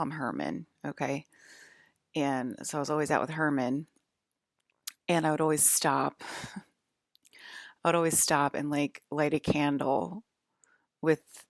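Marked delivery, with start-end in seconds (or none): 5.1-11.4 real laugh breaking into the story; trying not to laugh while telling it; amused, apologetic giggle mid-sentence; suppressed laughter. Real, not acted. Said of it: "I'm laughing, I'm sorry that I'm laughing".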